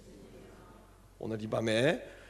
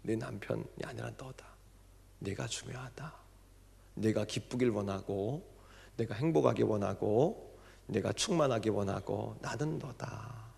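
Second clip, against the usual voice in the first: soft, hushed divine words; a soft whisper of revelation; gentle voice of God; 3 semitones lower, 6 dB quieter than usual. Retold or imitated. God speaking softly to the deaconess, hushed. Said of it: "하나님 그러시더래요".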